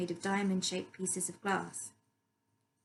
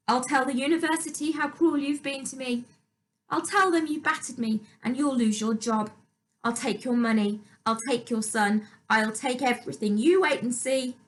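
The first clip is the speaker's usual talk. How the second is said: vicious stepmother; 5 semitones higher, 7 dB louder than usual. A narrator's reading. Louise's threats to dad.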